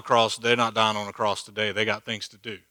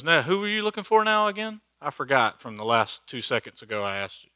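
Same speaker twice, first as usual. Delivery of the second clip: mock forgetful; 4 dB quieter than usual. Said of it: "And he goes".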